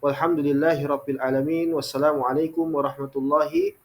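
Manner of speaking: fast, rattled-off closing blessing; closing formula. Acted. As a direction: run through the closing formula quickly. (doa penutup berbahasa Arab yang diucapkan cepat)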